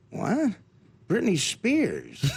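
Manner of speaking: very slow puzzled deadpan; deadpan Norm Macdonald. Retold or imitated. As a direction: drag it out in slow disbelief. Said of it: "and Norm goes".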